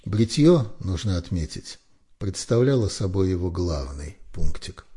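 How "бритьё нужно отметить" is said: usual speaking voice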